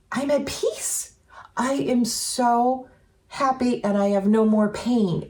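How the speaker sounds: slow, high and blissful; mom's ghost soothing her friend, slow and high; blissful peace. Retold or imitated. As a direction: voice a spirit at peace, slowly and gently. Dead mom speaks in a dream.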